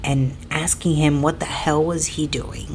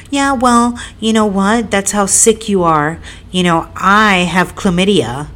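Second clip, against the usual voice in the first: put-on childish retort; 4 semitones higher, 4 dB louder than usual. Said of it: "like a child".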